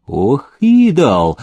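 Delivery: a touch of fury, slowed down; mild angry soldier. Acted. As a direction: grumble it as a cross soldier. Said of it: "рассвирепел солдат".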